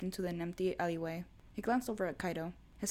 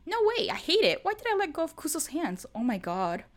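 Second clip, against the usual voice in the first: much higher, louder frantic thought; inner panic; 9 semitones higher, 8 dB louder than usual. A narrator's reading. Alone in a dark alley, frantic loud panic. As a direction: let the fear spill out.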